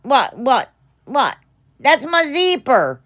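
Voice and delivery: real double take at the zipper; sudden surprised rise in pitch. Real, not acted. Startled to find zipper problem.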